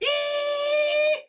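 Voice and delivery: piercing squeal imitating a hearing aid. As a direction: shriek it like feedback whine. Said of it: "he'll be like".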